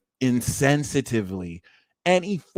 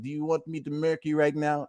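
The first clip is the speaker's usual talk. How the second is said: lightly attempted Italian mobster threat; half-hearted Italian mafia impression; bad Italian mafia accent; 2 semitones higher, 4 dB quieter than usual. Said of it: "like, an Italian mafia vibe".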